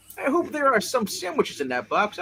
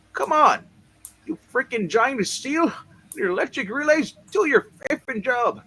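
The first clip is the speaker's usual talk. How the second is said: urgent. Acted. Urging the machine.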